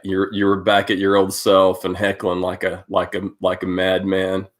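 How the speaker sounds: usual speaking voice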